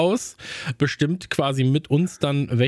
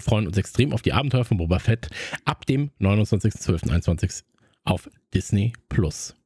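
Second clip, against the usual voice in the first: movie trailer voice. Shown as a demonstration. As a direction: read like a film trailer announcer. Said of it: "meine Trailerstimme".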